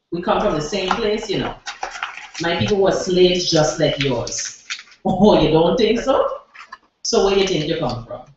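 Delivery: put-on a light Saint Thomas island accent carried through the poem; Virgin Islands dialect. Poet performs her poem for the open mic crowd in a light Virgin Islands accent. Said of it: "the way we talk back home".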